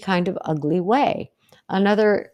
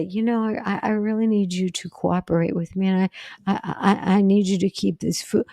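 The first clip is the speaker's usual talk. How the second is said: hesitant, stumbling over the I's; mock nervous request, unsure of yourself; nervous, timid. Shown as a demonstration. Coach demos timid request to family, mildly nervous. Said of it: "And I sound like you know, I'm terrified".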